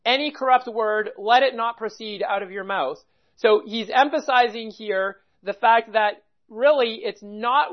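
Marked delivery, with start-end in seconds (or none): 0.0-3.0 ANY placed up front with emphasis; stress on ANY. Shown as a demonstration. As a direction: lean on the opening word Any. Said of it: "very first word there is any".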